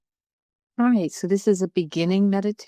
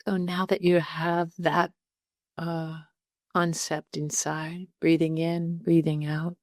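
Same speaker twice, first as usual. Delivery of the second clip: calm meditation guide with long pauses; unhurried, conversational meditation instruction; guided meditation. Real, not acted. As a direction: talk listeners gently through settling in, leaving space between phrases.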